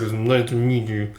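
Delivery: soft mumble under the breath; muttered. Retold or imitated. Hemlock greeting coworkers, muttering under his breath. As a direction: mutter it reluctantly, low-key. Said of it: "just mutters under his breath".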